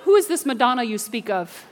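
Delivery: lightly voiced pious churchgoer. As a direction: gently imitate someone too holy for pop music. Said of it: "Y'all are holy. You're like".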